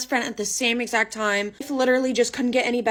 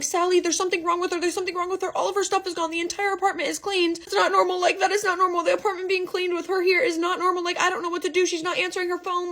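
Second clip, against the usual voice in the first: high, fast panicked pleading; frantic, high-pitched worry without real sobs; panicked crying; 8 semitones higher than usual. Retold or imitated. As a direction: blurt it out in a frantic rush. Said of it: "I'm sobbing. I'm crying".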